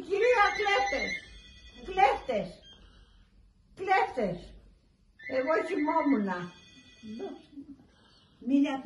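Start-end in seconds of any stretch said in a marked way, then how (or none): 0.1-4.4 high, loud cry of thieves; retold shouting. Helper shouts to wake the lady, high and loud. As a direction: call out the alarm, high and loud. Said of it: "σηκώνεται και φωνάζει".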